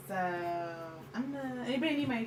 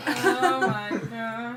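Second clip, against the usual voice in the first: loud, raised-pitch outcry; loud exclamation; 4 semitones higher, 10 dB louder, much slower than usual. Real, not acted. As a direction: burst out in real dismay. Exclaims at the sudden attack.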